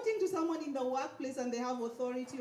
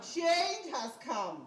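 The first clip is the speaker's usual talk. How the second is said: slow, louder call, higher, stressing change; 4 semitones higher, 4 dB louder, much slower than usual. Shown as a demonstration. Speaker pushes audience to repeat, louder and slow. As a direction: rouse the room, leaning on change.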